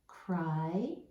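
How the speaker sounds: "crying" split into "cry" and "ing"; word in chunks. Shown as a demonstration. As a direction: sound out "crying" with a gap before "ing". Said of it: "So our word is".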